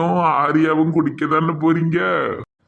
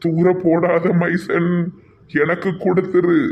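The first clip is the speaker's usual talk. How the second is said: put-on old woman voice; 4 semitones higher, slower than usual. Old woman begging for bottle.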